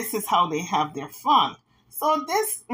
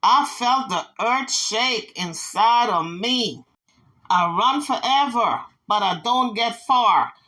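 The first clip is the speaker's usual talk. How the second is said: song lyric recited. Retold or imitated. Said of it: "words to the song goes like this".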